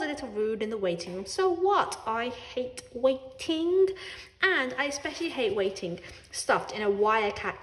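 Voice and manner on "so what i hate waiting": defiant. A narrator's reading. Defiant cat.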